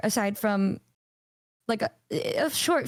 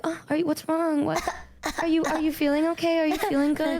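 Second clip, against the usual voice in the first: higher, fussing caring questions; mock doting; 5 semitones higher than usual. Asking a friend if she feels okay, high doting. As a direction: fuss over them sweetly. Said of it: "I'm like".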